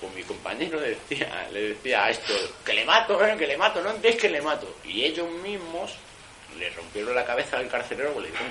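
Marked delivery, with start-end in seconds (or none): 2.7-4.8 high, loud, desperate repeated threat; shouted threat. Retold or imitated. Cellmate yelling at the assault team, a loud desperate threat. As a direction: yell it at the assault team again and again.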